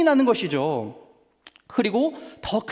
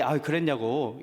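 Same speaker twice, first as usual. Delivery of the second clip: lukewarm; 4 semitones lower than usual. Retold or imitated. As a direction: shrug it off lightly. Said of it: "시큰둥하게".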